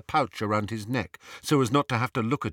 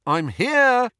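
raised, high-pitched call back; 13 semitones higher, 7 dB louder than usual. A narrator's reading. Harry answering from upstairs, calling out loudly. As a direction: call back to someone searching for you. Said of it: "he called".

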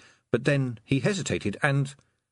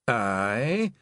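quavering. Acted. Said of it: "Rob Anybody quavered".

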